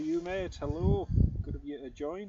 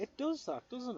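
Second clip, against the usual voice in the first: high squeak; 11 semitones higher than usual. Pretend. Agreeing in a high put-on voice.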